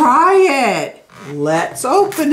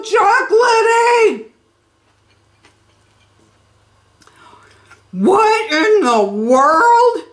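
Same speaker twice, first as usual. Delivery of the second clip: speaking between bites; talking while chewing; 4 semitones higher, slower than usual. Real, not acted. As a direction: mouth partly full of cereal. Seen 3: Holds bowl and spoon; closed-mouth chewing visible around 2-3 s.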